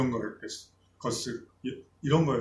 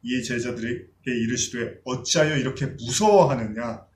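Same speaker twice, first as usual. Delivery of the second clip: measured solemn Bible reading; scripture reading; slower than usual. Acted. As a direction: read the passage aloud with gravity. Scripture reading opening sermon. (성경 본문 낭독)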